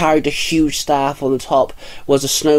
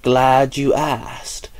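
very slow, sneering monster voice; much slower than usual. Acted. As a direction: savour every word with contempt. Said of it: "Krampus sneered".

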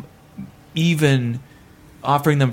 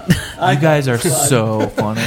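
casting director tone; 2 semitones lower, much slower than usual. Acted. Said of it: "actory casting director tone".

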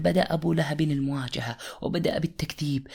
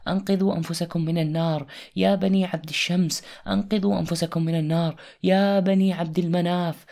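calling out; 4 semitones higher than usual. Acted. Prophet warning the clans aloud.

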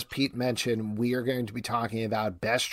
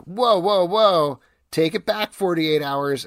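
mock movie rewind; 7 semitones higher, 7 dB louder, slower than usual. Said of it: "And then they're like".

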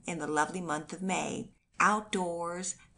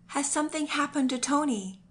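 higher, frantic question; anguished question; 8 semitones higher than usual. A narrator's reading. Terrified mother asks about her son, higher pitched. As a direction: fear for her child. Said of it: "in the greatest anguish".

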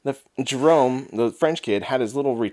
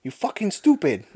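put-on French accent; 3 semitones higher than usual. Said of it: "Cussing him out".

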